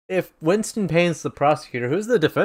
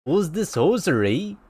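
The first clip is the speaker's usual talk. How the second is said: put-on copied Canadian accent with a rising end; Canadian judge's puzzled question; 3 semitones higher, 4 dB quieter than usual. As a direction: echo the coach's Canadian lilt. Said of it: "There you go".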